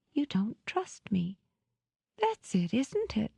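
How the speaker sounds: shaky, tearful, breaking high; trembling voice. Acted. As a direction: voice shaking with held-back tears. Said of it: "her voice thickened and shook".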